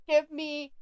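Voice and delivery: imitating someone spelling it out slowly; slow, deliberate retold demand. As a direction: say it word by word, drawn out for a confused listener. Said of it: "he finally says it slower".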